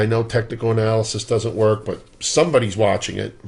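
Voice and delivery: dry, mock-serious sarcasm; sarcastic. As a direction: say it tongue in cheek. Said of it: "I'm being sarcastic".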